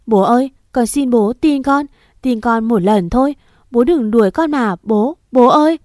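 cling to the gate and beg her father; desperate child sobbing at the gate; crying, begging. Acted. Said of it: "vừa khóc vừa van xin".

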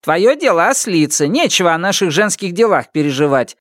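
put-on high curt old woman; curt high rebuke; cutting off. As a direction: cut him short. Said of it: "отрезала Люй".

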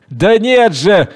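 indignant slow yell; shout. Acted. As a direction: shout him down. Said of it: "крикнул Януарий".

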